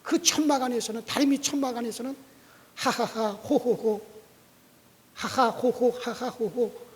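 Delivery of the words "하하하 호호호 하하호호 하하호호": spelled-out ha-ha, ho-ho laughing; mock laughter in even bursts; imitated laughter. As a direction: act out people chuckling on and on. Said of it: "웃음소리가 계속 나는 거야".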